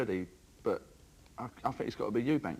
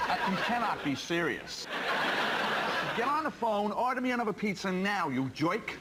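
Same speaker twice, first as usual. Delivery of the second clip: McEnroe tantrum; 5 semitones higher than usual. Acted. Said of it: "McEnroe getting in a tiz".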